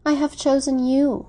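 fervent, high-pitched declaration; passionate. A narrator's reading. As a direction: declare it with feeling. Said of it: "she said passionately".

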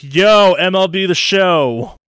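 high, loud imitation of company hype; mock hype shout. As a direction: call it out like a hyped-up announcement. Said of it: "got out there and were like".

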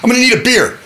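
high, loud cartoon duck. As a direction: order a beer like a cocky cartoon duck. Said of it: "He says".

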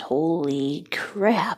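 slow, whispered disbelief; awed whisper. Real, not acted. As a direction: whisper it, stunned. Awed at the number.

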